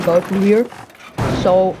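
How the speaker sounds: talking through a yawn; sleepy yawn mid-sentence. Real, not acted. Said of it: "I apologize for yawning".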